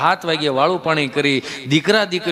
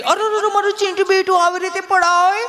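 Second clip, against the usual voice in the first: high doting mother's coo; fussing mother; 12 semitones higher than usual. Acted. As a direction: coo over the child like an anxious mom. Mother fusses over fallen child.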